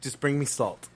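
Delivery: words broken by laughter; speaking through real laughter; laughing while talking. Real, not acted.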